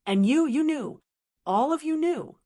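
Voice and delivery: the son finally turns on his in-laws, angry; accusing outburst. A narrator's reading. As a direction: hurl the accusation at them.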